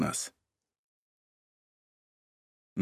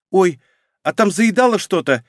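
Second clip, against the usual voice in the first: higher, startled little squeak; frightened squeak; 6 semitones higher than usual. A narrator's reading. Wife caught out by her husband, frightened squeak. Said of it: "испуганно пискнула женщина".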